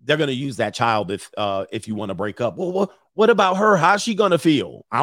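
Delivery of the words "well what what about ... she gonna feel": mock pleading ex. Mocking a pleading ex-girlfriend.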